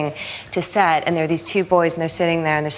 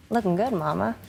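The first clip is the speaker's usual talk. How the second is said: softer, offhand imitated compliment; Sandy Bullock; 6 dB quieter than usual. Co-star greeting her on set, imitated casual praise. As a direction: toss it off quietly, as a retold aside. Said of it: "Sandy Bullock just looks up and goes".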